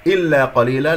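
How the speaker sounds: measured tajweed reading of إلا قليلا; teacher modelling إلا قليلا; recitation demo. Shown as a demonstration. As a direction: recite إلا قليلا with every sound placed. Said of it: "هكذا هو الصوت".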